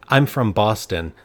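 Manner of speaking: put-on slow, thick Boston accent. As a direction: drawl it like a Bostonian. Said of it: "with a thick Boston accent".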